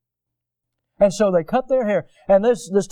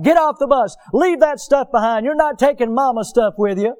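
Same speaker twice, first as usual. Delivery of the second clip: loud, high drill-sergeant orders; retold hollering; 5 semitones higher, 3 dB louder than usual. Preacher imitates sergeants unloading recruits off the bus, hollering. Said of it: "they are screaming at 'em. They're hollering".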